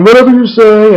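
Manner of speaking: mocking high-pitched impersonation; put-on high mimicking voice; Johnny Ace. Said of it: "mimics Johnny Ace's voice".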